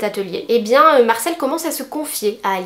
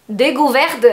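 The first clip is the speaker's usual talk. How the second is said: German accent; slower than usual. Shown as a demonstration. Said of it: "Je me retiens de pas faire l'accent allemand".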